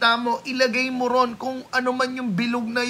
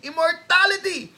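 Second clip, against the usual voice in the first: Achilles battle cry; 7 semitones higher than usual. Retold or imitated. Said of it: "Kay Achilles".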